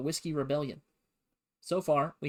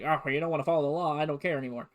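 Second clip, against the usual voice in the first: huffy; 4 dB louder, faster than usual. Retold or imitated. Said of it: "he storms out and he gets all huffy".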